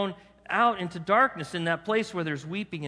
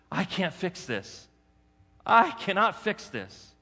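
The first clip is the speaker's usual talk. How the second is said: impassioned plea; 5 semitones higher, 4 dB louder than usual. Acted. Centurion's earnest plea voiced.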